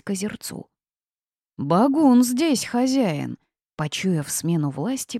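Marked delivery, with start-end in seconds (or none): 1.6-3.4 very slow, high-pitched monster hoot; droning swamp creature. A narrator's reading. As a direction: drone it out like a bog beast. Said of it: "прогудел болотник".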